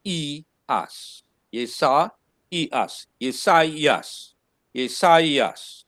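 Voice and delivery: Yesaias with a separate i sound, yeh-sah-ee-as; correct pronunciation. Shown as a demonstration. Teacher repeating the right pronunciation for students. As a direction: split the ai in Yesaias into two vowels. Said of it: "you're gonna pronounce it Yesaias".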